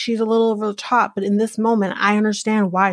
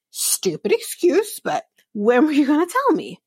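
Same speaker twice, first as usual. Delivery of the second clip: scornful wife; 6 semitones higher than usual. Retold or imitated. Wife dismissing her husband's excuse, scornfully high. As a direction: sneer at his excuse.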